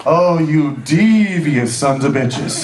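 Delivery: slow, laughing curse; laughing mock outrage. Real, not acted. Speaker marvels at the Dutch trick, slow and laughing. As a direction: savor each word through laughter.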